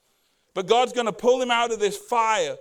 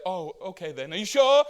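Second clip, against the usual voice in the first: mock reluctant acceptance; 3 semitones lower than usual. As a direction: fake polite hesitation. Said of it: "But what happens is like".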